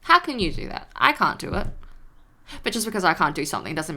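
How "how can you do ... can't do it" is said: high, gushing fake admiration; mock awe. Praising a productive person, in high, gushing mock awe. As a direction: gush over them with over-the-top awe. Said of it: "you're like".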